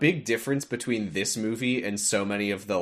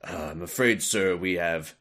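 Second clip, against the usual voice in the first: mock formal underling; 4 semitones lower than usual. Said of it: "when they're like".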